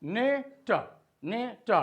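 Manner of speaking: "नेट" broken into "ne" and "ta"; "नेट" pulled apart into two small sounds; split further. Shown as a demonstration. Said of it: "और भी तोड़ सकते हैं".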